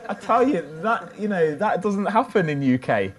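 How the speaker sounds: high, loud excited proclaiming. Real, not acted. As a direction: fire up the crowd. Excited proclamation after laughter.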